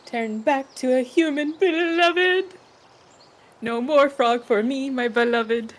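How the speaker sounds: mock serenade. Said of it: "serenade your beloved".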